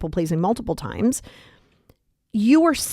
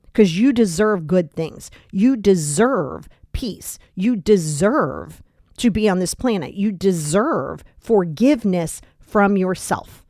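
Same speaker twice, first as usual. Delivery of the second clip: sincere affirmation; slower than usual. Real, not acted. Affirmations to listener.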